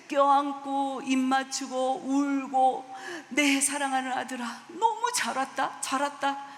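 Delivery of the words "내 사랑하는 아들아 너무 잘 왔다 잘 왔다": joyful welcome. Retold or imitated. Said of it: "기뻐하면서요".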